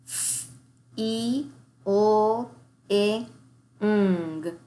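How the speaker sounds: "Feeling" split into single sounds, with "ing" as "I" then "ng"; segmented sounds. Shown as a demonstration. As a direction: sound out "Feeling" one sound at a time. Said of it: "break up that ing into I and ng".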